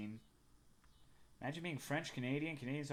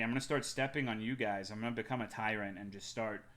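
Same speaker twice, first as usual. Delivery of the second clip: usual speaking voice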